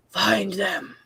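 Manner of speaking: low growling hunter voice; growled warning. Acted. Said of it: "you hear this low growling voice".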